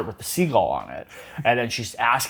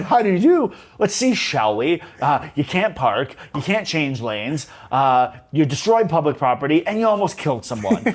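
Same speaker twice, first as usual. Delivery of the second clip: mock stern instructor; 2 semitones higher than usual. Driving instructor mocks Cher's test, lightly voiced sarcasm. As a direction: list her mistakes with dry scorn. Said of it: "He's like".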